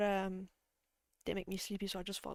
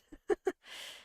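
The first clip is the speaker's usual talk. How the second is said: amused nose exhale. Real, not acted. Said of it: "Did you just snort at me?".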